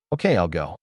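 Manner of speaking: sighing, resigned okay. A narrator's reading. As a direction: give in with a sigh. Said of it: "She let out a long sigh".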